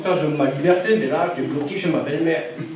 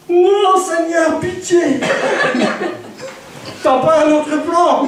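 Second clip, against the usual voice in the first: high, loud, slow pleading, half laughing; mock desperate pleading; 10 semitones higher, 3 dB louder, slower than usual. Man pleading with God, high hammed-up begging. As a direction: beg God for another way, hammed-up.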